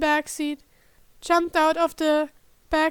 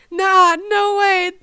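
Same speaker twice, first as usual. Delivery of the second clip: disbelieving; 4 semitones higher, 9 dB louder, slower than usual. Acted. Disbelief at the bruise.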